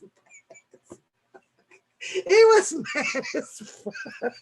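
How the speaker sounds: high, drawn-out words dissolving into laughter; helpless laughter. Real, not acted. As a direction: squeeze it out while laughing. Cracking up at his anger.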